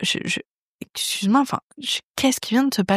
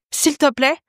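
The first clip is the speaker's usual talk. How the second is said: mildly imitated aggressive tone; 4 semitones higher than usual. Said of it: "il met sa main de manière agressive".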